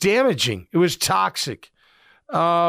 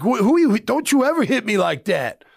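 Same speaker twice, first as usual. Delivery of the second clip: retold angry yelling; 4 semitones higher than usual. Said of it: "he, like, literally snapped".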